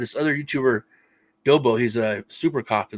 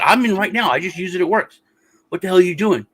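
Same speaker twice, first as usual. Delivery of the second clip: mild mock yelling, pitched up; retold yelling; 5 semitones higher, 3 dB louder than usual. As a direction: argue back in exasperation, imitating a row. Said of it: "yelling at each other".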